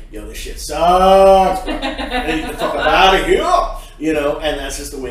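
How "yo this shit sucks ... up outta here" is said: loud, slangy hangout voice with a laugh; casual bro talk. Shown as a demonstration. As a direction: drop the polish and talk like with a buddy. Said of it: "And then you're hanging out with your friend, and you're like".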